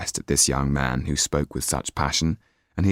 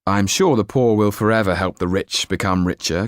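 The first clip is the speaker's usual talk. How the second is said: put-on earnest young idealist, raised voice; young Jan; 3 semitones higher, 3 dB louder than usual. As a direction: speak up with youthful idealism.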